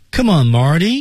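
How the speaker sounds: intonation climbing upward at the end of the line. Explaining the intonation of an English line: rising tone on Come on, Marty. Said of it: "升调".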